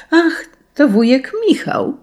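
put-on children recognise their uncle, calling gladly; joyful call. A narrator's reading. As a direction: call out with relief and joy. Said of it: "zawołały dzieci".

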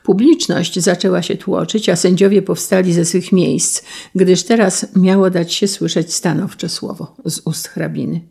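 plain reading voice

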